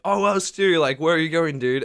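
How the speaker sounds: loud, high-pitched mock greeting; loud imitated passenger. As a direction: act out a rowdy seatmate, raising the voice. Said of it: "Just start talking really loud".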